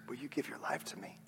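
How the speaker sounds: a hushed divine I love you; God's whisper. Acted. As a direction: whisper it like a loving God. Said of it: "you hear the whisper of the Spirit".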